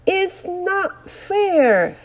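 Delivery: slow, high sulky whine; gloomy. Acted. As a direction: sulk like a sore loser. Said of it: "The wind looked gloomy".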